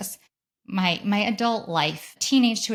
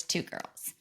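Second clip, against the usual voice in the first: whispered; 10 dB quieter than usual. Real, not acted. Listing wished-for twin combos.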